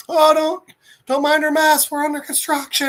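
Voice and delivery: high, put-on announcing voice; sign read out. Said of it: "and it's like".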